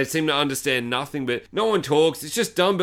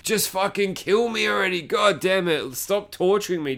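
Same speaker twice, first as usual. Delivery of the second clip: higher, exasperated begging in jest; mock pleading; 5 semitones higher than usual. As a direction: play a fed-up captive begging for the end. Voices tortured captive begging.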